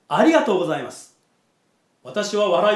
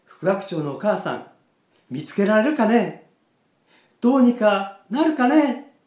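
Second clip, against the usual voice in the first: wheedling, coaxing voice, higher at the end; fake cute pouty voice; 3 semitones higher than usual. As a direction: sidle up and beg sweetly. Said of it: "猫なで声を出した".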